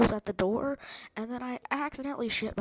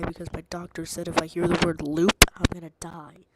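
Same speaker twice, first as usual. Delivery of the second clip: loud mock; 4 semitones lower, 7 dB louder than usual. Pretend doctor warning, loud.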